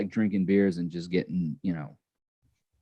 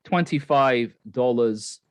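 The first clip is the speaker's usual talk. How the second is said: slow, lightly Australian delivery; Australian accent; slower than usual. Real, not acted. Host announcing the pendant price, slight Australian accent. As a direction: stretch it out with an Aussie lilt. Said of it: "talking in an Australian accent".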